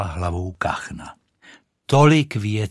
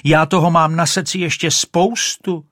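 high shriek; 8 semitones higher, 6 dB louder than usual. Acted. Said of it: "ječela Rachejtle".

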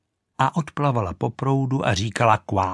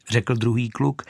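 ordinary delivery, nothing marked

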